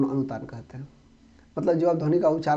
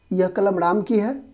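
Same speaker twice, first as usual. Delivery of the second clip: यह कलम राम की है higher, slower, rising on की; surprised; 4 semitones higher than usual. Shown as a demonstration. Teacher showing how the sentence changes meaning, surprised. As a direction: say यह कलम राम की है as an astonished question. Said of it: "आश्चर्य से".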